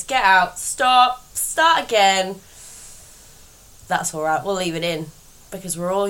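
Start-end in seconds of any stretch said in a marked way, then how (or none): 0.0-2.4 loud, punched commands with breaks between; self-scolding. Real, not acted. Host stops her own botched intro, loud self-scolding. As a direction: cut yourself off firmly and loudly.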